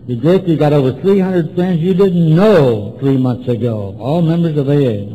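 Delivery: firm sponsor's dictation; dictating. Retold or imitated. Sponsor dictating gratitude list to newcomer, dictating. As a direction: spell out the item for the writer. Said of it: "you write and I'll dictate".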